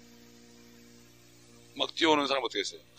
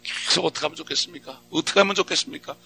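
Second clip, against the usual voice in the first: repeated plea climbing higher each time; rising plea; 4 semitones higher than usual. Pretend. Preacher reenacting praying all morning for a struggling brother. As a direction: keep pleading, pitch climbing. Repeated pleading prayer building.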